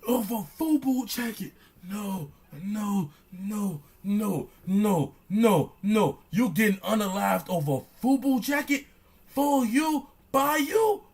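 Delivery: high, disbelieving no no no; can't believe what he's hearing; shocked disbelief, pitch climbing; incredulous. Real, not acted. Disbelief at fubu jacket killing.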